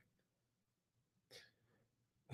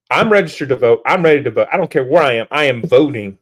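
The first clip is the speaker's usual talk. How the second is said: loud emphatic declaration; 6 dB louder than usual. Real, not acted. Vows to vote, rallying viewers.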